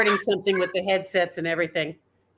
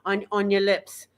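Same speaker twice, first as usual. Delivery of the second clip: off-the-cuff Irish accent, placed forward in the mouth; light Irish accent, sounds sitting right on the lips; 2 semitones higher than usual. Shown as a demonstration. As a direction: improvise an Irish accent, close to British but further forward. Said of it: "I'm just kind of doing it off the cuff".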